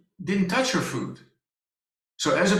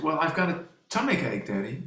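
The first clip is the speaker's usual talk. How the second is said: weak daughter. Retold or imitated. Father retelling his daughter's morning, a hint of a weak girl. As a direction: imitate her fading, unwell voice. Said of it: "She said".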